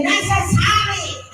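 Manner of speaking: "Necessary" high, with open vowels, Filipino style; Filipino-accented "Necessary", every syllable punched high. Shown as a demonstration. Tutor shows how Filipinos say it, Filipino accent. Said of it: "And then we say".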